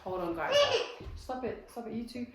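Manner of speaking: hushed telling-off. Real, not acted. Mom quietly telling off two squabbling kids.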